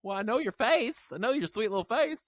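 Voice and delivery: Southern lisp. Pretend. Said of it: "I do that little Southern lisp voice".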